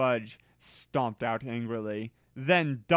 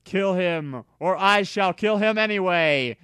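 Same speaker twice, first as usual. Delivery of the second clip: threat; 5 semitones higher, 4 dB louder than usual. Acted. Villain threatens.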